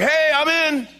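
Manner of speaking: very high, loud whoop; hammed-up gleeful yell; eager Peter. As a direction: shout it like an overkeen volunteer. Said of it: "And Peter's like".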